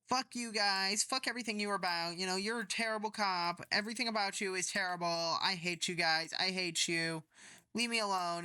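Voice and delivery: imitating a woman lashing out at the cops; mock angry outburst. Fleeing woman curses at the cops, mock angry.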